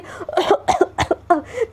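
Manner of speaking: a startled rising cough; coughing fit. Acted. Friend coughs again after hearing the confession, startled coughing. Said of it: "फिर से एकदम खांसने लगती है".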